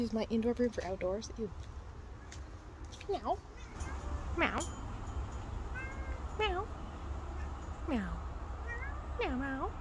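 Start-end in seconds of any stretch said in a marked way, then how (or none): 3.1-9.7 meowing at cat. Pretend. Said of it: "Just fully meowing at my landlord's cat".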